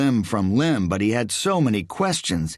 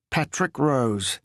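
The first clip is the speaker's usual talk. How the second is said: genuine; 5 semitones higher, slower than usual. A narrator's reading. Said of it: "he said genuinely".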